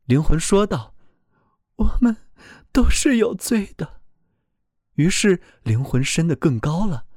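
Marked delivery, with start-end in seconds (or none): 1.8-4.0 higher, earnest voice of a frightened soul; pleading soul voice. A narrator's reading. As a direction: speak up as a soul defending itself. Soul confesses.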